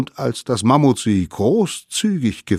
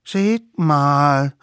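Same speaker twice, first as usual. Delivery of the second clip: high, louder sudden call; excited call; 6 semitones higher, 6 dB louder than usual. A narrator's reading. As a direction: point it out, excited. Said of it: "riefen sie plötzlich".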